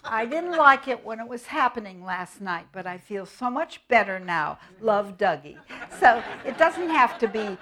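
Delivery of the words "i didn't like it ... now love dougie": put-on child's letter voice. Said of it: "he said".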